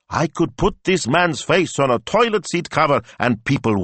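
high, amazed wonder; marveling. A narrator's reading. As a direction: marvel at the absurd idea. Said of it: "she marveled".

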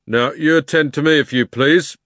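loud, officious demand; pompous policeman. Acted. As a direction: take down particulars. Policeman voiced.

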